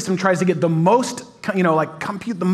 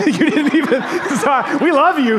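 higher, laughing apology to the left-out state; laughing tease; 8 semitones higher than usual. Real, not acted. Pastor teasing Indiana fans, laughing. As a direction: giggle through the sorry.

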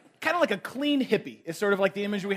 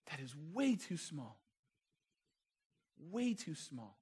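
much softer, grave and deliberate; hushed emphasis; 5 semitones lower, 12 dB quieter, slower than usual. Real, not acted. Preacher telling the congregation their Jesus is too small, hushed emphasis. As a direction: let it drop low and quiet, pausing between repeats. Preacher drives home solemn point.

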